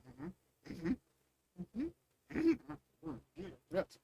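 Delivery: idle sing-song hums; lightly voiced oblivious dad murmuring; mock absent-minded dad. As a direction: hum along like a father pretending not to notice. Mimics the father nodding along.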